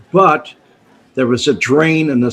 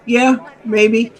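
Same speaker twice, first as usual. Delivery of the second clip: higher, offhand mock shrug; imitating casual dismissal; 8 semitones higher than usual. Sam shrugging off the risk to the narrator, mock offhand. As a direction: brush off the danger like it's nothing. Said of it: "that's the way he looked at it".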